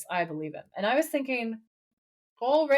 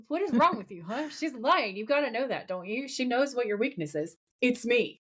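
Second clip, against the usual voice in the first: higher-pitched retold rebuke; mock-scold him in disbelief; mildly exasperated scolding; 4 semitones higher than usual. Dean to Sam about trusting a demon, mildly exasperated retelling.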